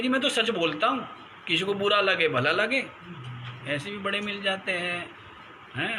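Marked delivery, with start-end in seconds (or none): 0.0-2.8 mocking a boastful truth-teller. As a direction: parody the self-proclaimed honest man. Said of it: "कई लोग कहते हैं कि".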